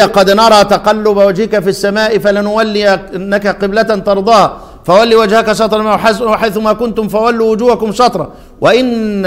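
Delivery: measured chanted verse reading; Quran recitation. Acted. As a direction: recite the verse in tajweed style.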